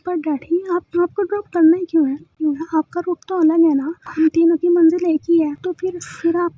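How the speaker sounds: upset protest. Acted. Daughter arguing with father.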